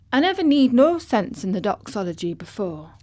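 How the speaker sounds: put-on rough hoarse old gardener; hoarse Yorkshire old man. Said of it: "he said hoarsely".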